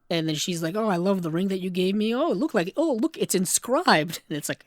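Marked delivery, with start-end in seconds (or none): 0.8-4.2 retold girlish delight. Voicing the delighted niece.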